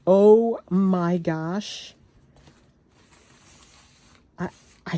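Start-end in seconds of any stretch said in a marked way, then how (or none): 0.1-1.9 amazed. Real, not acted. Reacting to fabric.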